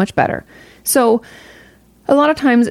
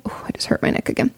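whispered aside after a twinge in the neck; pained whisper; 8 dB quieter, faster than usual. Real, not acted. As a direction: breathe it out as a hushed complaint. Hurts neck mid-talk, aside.

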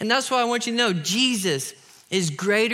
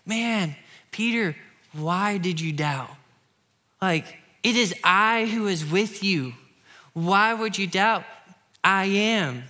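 gentle Jesus; slower than usual. Acted. Jesus voiced gently to Peter.

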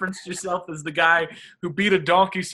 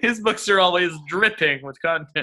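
laughing; 3 semitones higher, 4 dB louder than usual. Real, not acted. Laughing at the joke.

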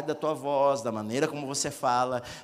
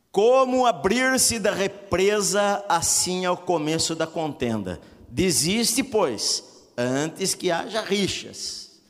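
slow, louder solemn reading of the verse; scripture reading; 3 semitones higher, 4 dB louder, slower than usual. Acted. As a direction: proclaim the verse with weight. Reads scripture aloud. (leitura solene e pausada do versículo)

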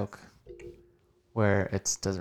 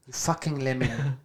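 put-on South African insult; South African accent. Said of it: "South African accent".

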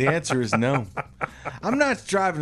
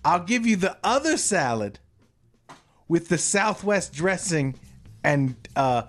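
higher, slower window worker voice; fast food worker; 4 semitones higher than usual. Retold or imitated. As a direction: deliver bad news like a cashier. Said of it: "Drive up to the window".

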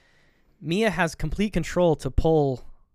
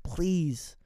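mock begging, pitched up; retold pleading; 4 semitones higher, slower than usual. Retold pleading for sixty seconds.

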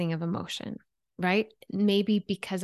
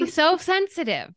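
laughing, pitched way up in mock; 9 semitones higher than usual. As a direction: scoff it through a laugh. Mocking a cliché about women.

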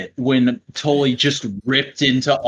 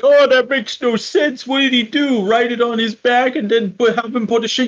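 mocking confused fans; 9 semitones higher than usual. Host mocking fans who call the angle nonsense, high whiny mimicry. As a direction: parody the confused viewers. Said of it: "people are like".

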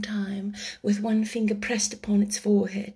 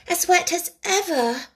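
melancholy; 8 semitones higher than usual. A narrator's reading. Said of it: "in a melancholy tone".

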